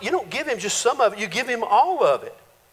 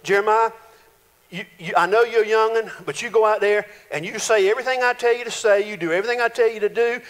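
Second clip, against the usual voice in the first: casual God pep talk. Acted. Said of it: "God says".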